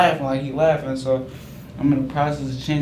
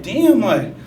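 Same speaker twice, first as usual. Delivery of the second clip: startled; 8 semitones higher, 7 dB louder than usual. Retold or imitated. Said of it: "I was scared".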